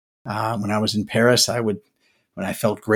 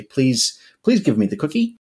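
put-on higher, pleading kid voice asking for a cookie; begging child; 3 semitones higher than usual. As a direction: beg sweetly like a child wanting a treat.

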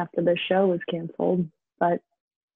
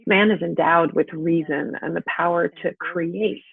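stage speech building from measured to impassioned; lightly acted plea, growing more insistent; Astrov's monologue. Astrov lamenting Russia's destroyed forests, building stage monologue. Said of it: "This is Astrov speaking in the middle of Act One".

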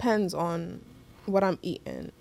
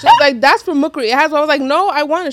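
laughing; 5 semitones higher, 10 dB louder, faster than usual. Real, not acted. Laughing through mom-plate retelling.

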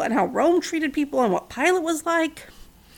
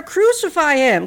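louder, slow, higher shout; 4 semitones higher, 6 dB louder than usual. A narrator's reading. Mob shouting at Pilate, slow loud chant. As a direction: hammer the words at Pilate. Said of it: "They shouted louder".

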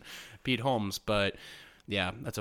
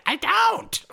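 much higher, louder, airy put-on voice; mock breezy reply; 9 dB louder than usual. Celebrity telling a forgotten fan, breezy put-on voice. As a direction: toss it off like a busy celebrity. Pete not recalling the fan.

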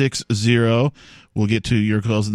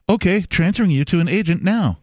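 higher, even robotic phone voice; automated voice; 6 semitones higher than usual. Retold or imitated. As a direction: read it like a cheerful phone menu. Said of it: "the automated voice go".

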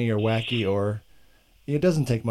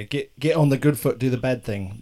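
mock English accent. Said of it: "when I do accents".

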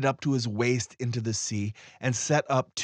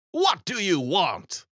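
slow, higher windy question; a touch of the wind answering; lightly voiced spirit asking slowly; storm wind voice; 7 semitones higher, slower than usual.

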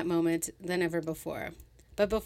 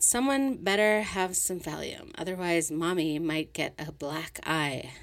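spat. Acted. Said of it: "Sylvia spat".

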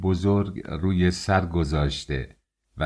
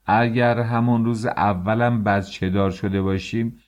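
outraged shout; 4 semitones higher than usual. Acted. Father shouts at the census official in disbelief, outraged. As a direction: protest in disbelief at the top of your voice. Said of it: "فریاد کشید".

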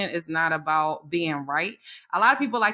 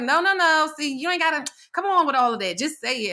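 imitating her impatient boss; 7 semitones higher than usual. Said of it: "she's like".

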